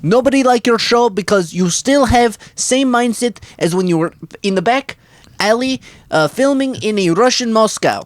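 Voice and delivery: hammed-up scolding of Jimmy; mock scolding. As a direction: tell him off, theatrically.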